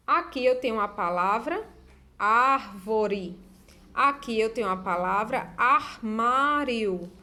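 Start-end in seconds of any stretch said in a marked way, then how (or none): 2.2-3.4 árvore with the opening "ar" held and stressed; árvore sounded out for learners; syllable-final AR. Shown as a demonstration. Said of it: "trabalhando aqui as sílabas ar". 5.6-7.1 armário slowly, "ar" set apart; armário sounded out for learners; syllable-final AR. Shown as a demonstration. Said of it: "trabalhando aqui as sílabas ar".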